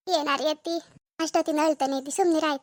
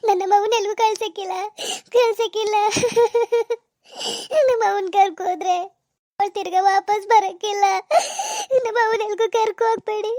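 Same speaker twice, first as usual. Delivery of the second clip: tearful pleading; 3 semitones higher than usual. Acted. Daughter begs them not to take mother's body.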